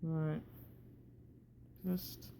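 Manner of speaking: talking through a wired-shut jaw. Real, not acted. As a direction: speak with teeth clamped together after jaw surgery. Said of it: "breathing is difficult with your mouth contained like this".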